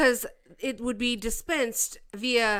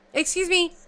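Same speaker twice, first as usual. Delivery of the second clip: higher, louder excuse me, pressing; mock confrontation; 7 semitones higher, 4 dB louder than usual. Streamer pressing the senator a second time, higher. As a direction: repeat it sharper and higher.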